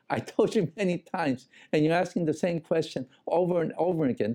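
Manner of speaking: sarcastic. Retold or imitated. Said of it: "responding in a very sarcastic way".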